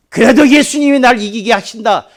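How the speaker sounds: loud, high-pitched mock testimony; bold declaration of faith. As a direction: proclaim victory at full voice. Acts out expected declaration of faith.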